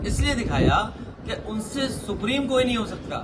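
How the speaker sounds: words broken by a short real laugh; speaking through a laugh; laughing while speaking. Real, not acted. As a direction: laugh through the mocking answer. Mocking answer to his own question.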